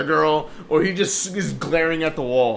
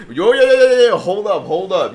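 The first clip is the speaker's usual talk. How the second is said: loud interjection; 4 semitones higher, 9 dB louder than usual. Retold or imitated. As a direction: imitate a coworker butting in. Coworker cuts in on rude customer.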